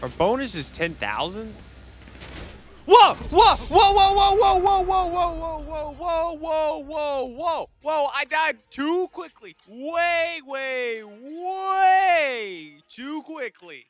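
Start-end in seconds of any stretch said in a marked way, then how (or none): 2.8-7.7 long string of high, loud whoas; shocked whoa. Real, not acted. Sudden crash in game. 7.8-13.9 high, stretched out way way too quickly; very slow, high protest at dying so fast; stunned disbelief. Real, not acted. Just died in the game.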